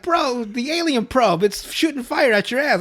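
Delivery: high, loud, slow alarm; alarmed friend. Retold or imitated. Friend telling the boy about the probe, high and loud. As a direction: spell it out in shock. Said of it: "And Stan's like".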